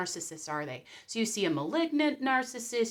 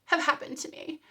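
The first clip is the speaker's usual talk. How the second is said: indignant whine; 8 semitones higher, 5 dB louder than usual. Retold or imitated. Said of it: "and you're like".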